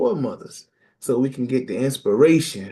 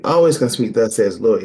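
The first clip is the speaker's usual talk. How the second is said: louder preaching punch on Thus says the Lord; loud refrain; 6 dB louder, faster than usual. Real, not acted. Preacher calling the congregation's refrain, loud. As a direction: drive the refrain home.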